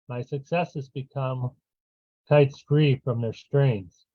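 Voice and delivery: measured poetry reading with long pauses; poem reading. Acted. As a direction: read it line by line, pausing after each. Reads own poem aloud.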